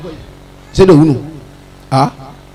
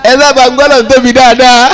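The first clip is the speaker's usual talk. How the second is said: preaching peak; 7 semitones higher than usual. Real, not acted.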